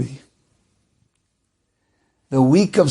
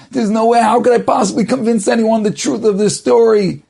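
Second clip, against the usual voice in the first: higher, mounting mock despair without real sobs; retold tearful distress; 6 semitones higher than usual. Framed merchant pouring out his troubles to two strangers, retold tearful distress. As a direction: pour it out, pitch climbing as hope runs out. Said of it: "and he's crying and crying".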